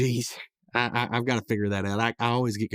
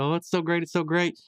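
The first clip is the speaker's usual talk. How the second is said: high-pitched imitation of a delighted character; mock delight; 6 semitones higher than usual. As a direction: gush lightly in a higher voice. Retelling Pops spinning, still delighted.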